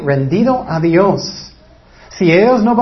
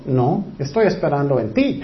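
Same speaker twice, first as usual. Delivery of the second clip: voice of God; 4 semitones lower, 5 dB quieter than usual. Retold or imitated. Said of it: "Y Dios está diciendo".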